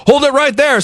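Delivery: police officer halting burglars, commanding; policeman. Acted. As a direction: stop them like a cop. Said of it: "said the policeman".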